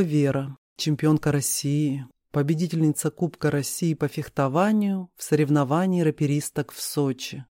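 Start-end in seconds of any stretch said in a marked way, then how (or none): none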